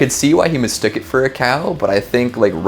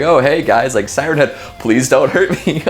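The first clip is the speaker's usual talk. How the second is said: lightly hammed-up, higher pleading voice; mock friendly plea; 5 semitones higher than usual. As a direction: play a chummy man begging monsters for mercy. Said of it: "He's like".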